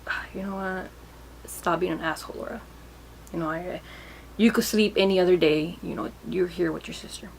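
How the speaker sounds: hushed self-reproach in the night; quiet self-scolding. Retold or imitated. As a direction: talk yourself back into staying awake. Scolding herself at the hospital.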